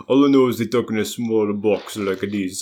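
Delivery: rough mock French; small, boxed-in attempt at French; French accent. Shown as a demonstration. Showing how French people talk, mock French accent. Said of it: "there's so much more to French".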